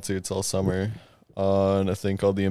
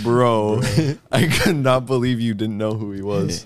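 laughing disbelief; 4 dB louder than usual. Retold or imitated. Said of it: "I'm like".

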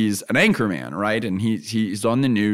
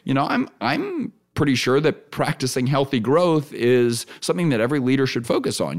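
inviting, qualified. Shown as a demonstration. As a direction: hedge it and invite a reply. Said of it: "now I'm talking with you".

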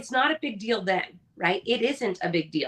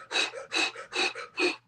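a mock heavy breath out, like a machine pushing on; imitating a relentless runner's hard exhale; Terminator exhale; 7 dB quieter than usual. Mom imitating her son running like the Terminator, hard breath. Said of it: "he runs like the Terminator".

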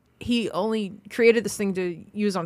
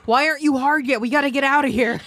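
laughing mock urgency; 6 semitones higher than usual. Acted Back to the Future scene.

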